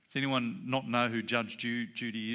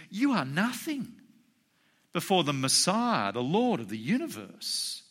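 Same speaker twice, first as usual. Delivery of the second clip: emphatic put-down, opening pitched high; majestic authority; 5 semitones higher than usual. Retold or imitated. Jesus to people who came to judge him, majestic authority. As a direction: proclaim it with a touch of majesty. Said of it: "display of the greatness and majesty and power".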